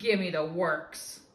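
curt, loud demand; snapped order. Acted. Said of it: "he snaps".

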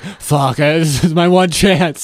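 lightly voiced boyfriend, slow and desperate; desperate Hunter. Friend mocks the boyfriend's nerves, a hint of slow desperate voice. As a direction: play him clutching at his one chance. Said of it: "Hunter's like".

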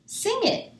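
very high, bright call to sing; excited cue. Acted. Peg to Mac and Ramon, very high excited cue. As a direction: cue the band with glee. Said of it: "Peg said to Mac and Ramon".

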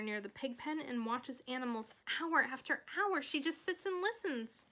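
lightly voiced fretting mother; Fern's mother, worried. Voices mother confiding in doctor.

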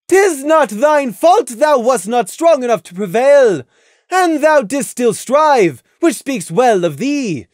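high, loud royal interrogation; imperious moon princess; stern princess Luna. A narrator's reading. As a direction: press them like a stern royal judge. Luna judges Crimson.

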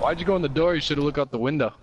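raging gamer. Real, not acted. Scolding teammate after loss.

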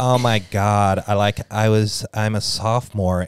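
slow, drawn-out mock TikTok girl; a hint of a valley-girl sophomore, slow. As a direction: lightly send up a gushing sophomore. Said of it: "they're all going".

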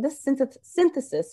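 lisping through new braces; slushy sh for s; slurred s from braces. Real, not acted. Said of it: "sorry, I got braces today. So if I sound like I'm slurring".

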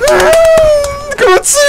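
excited squeal. Real, not acted. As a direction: squeal with delight. Excited approval, very high. (아주 높게 신난 외침)

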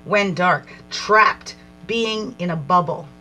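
measured, reflective reading voice; card reading. Acted. Reads oracle card text aloud.

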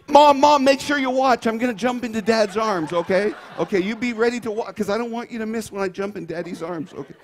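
put-on a kid shouting for Mom to watch; excited little girl calling. Preacher as daughter calling out to Mom before jumping. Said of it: "play the part of a cute little five-year-old girl".

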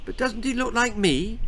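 high, timid apology; tiny apologetic voice. A narrator's reading. Timid queen interrupting the court, tiny voice. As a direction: squeak it from the back of the room. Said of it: "a tiny voice".

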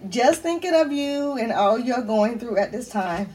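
slow, emotional reading; getting emotional. Real, not acted. Reading her friends' card to viewers, getting emotional. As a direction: read it slowly, starting to well up. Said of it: "I'm getting emotional again".

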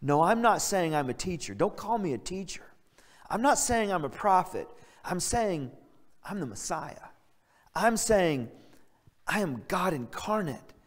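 mildly melodramatic, cool demeanor; imitating a composed, soft-spoken speaker. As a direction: make the claim coolly, with measured drama and pauses. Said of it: "He's a little more soft-spoken".

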